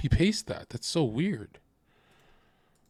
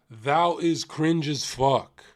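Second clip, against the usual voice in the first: slow, measured pronouncement; lightly voiced God passing judgement; God speaking; slower than usual. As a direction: draw it out like a mild divine decree. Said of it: "if God came down from the heavens".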